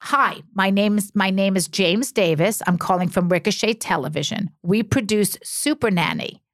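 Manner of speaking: slightly slowed, formal phone-message voice; James Davis. Retold or imitated. TV producer leaving a casting message on her machine, lightly imitated. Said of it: "Let's hear this impersonation".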